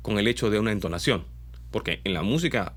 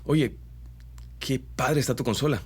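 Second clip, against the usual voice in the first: playful Mexican singsong with "padre"; Mexican accent; 2 semitones higher than usual. Shown as a demonstration. Voice coach repeats the Mexican lilt with slang. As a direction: lean into Mexican slang and melody. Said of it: "la repito".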